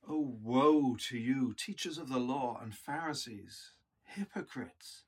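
slow, grieving woe to you; sad woe. Shown as a demonstration. Preacher showing Jesus grieving over the Pharisees: slow, sad. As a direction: let the woe sound like grief. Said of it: "but also as sadness".

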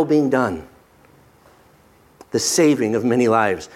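calm, measured reassurance; kindly reassurance. Retold or imitated. Joseph reassuring his frightened brothers, kindly. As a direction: reassure them gently, taking time over the promise. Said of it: "he reassured them and spoke kind, spoke kindly to them".

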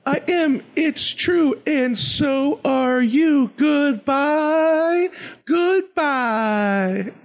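very high, drawn-out rhythmic farewell; sing-song kids' show host saying goodbye; DJ Lance Brock. Acted. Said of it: "I'm totally gonna do that".

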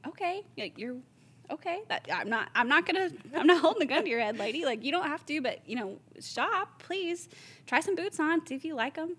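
high-pitched, placating protest; exasperated but polite, voice pushed up high; retold exasperation. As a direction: act out pleading with a difficult customer, pitched high. Retold exasperated reply to complaining shopper.

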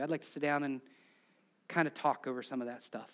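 mildly tender, low and conversational; gentle reassurance. Acted. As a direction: reassure them like a patient friend. Voices Jesus gently reassuring the listener.

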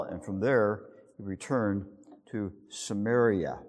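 measured, formal Bible reading aloud; scripture reading. Acted. Preacher reading scripture to the congregation, formal and measured. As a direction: read the passage to the congregation with weight.

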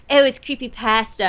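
"creepypasta" with the a of "cat", slightly lifted; imitating British "pasta". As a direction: mimic a British friend's short a in "creepypasta". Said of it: "who is our British friend".

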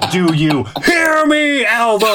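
high, drawn-out angry movie-boss yell; angry shout. Retold or imitated. Podcaster playing an angry boss calling his secretary, angry shout. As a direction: stretch it out in a high, hammed-up shout. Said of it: "That's how angry he was".

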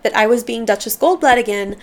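measured, expressive memoir reading; audiobook narration. Acted. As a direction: read it aloud with careful phrasing and lively emphasis. Reads the memoir aloud.

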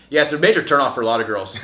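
put-on quick, level delivery of "Yeah, it's a major turnoff for a lot of girls.". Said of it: "without, like, giving any kind of raised inflection".

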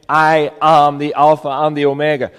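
"I am" firmly weighted at the start; emphatic opening on "I am"; strong stress on "I am". Shown as a demonstration. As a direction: lean on "I am" before the rest of the title. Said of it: "puts a strong emphasis on the word".

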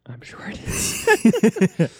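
very slow, high-pitched echo; playful high repeat. Pretend. Host agreeing about the backyard, slow high joking repeat. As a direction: stretch it out high and jokey.

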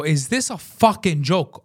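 retold angry challenge; slow, indignant retold question. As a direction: confront them, hitting the swear. Retold confrontation with the secretary.

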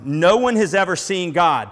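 ringing declaration of one; proclaimed loud. Shown as a demonstration. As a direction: announce it like a revelation to the whole room. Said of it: "this statement that blows your mind".

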